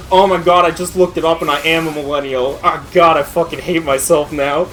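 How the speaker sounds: mock despair. YouTuber finding out he is a millennial, hammed-up dismay. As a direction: play shocked self-loathing. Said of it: "He's like".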